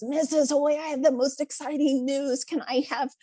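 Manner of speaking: lightly voiced little girl with big news; excited little girl. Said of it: "she comes in and she says".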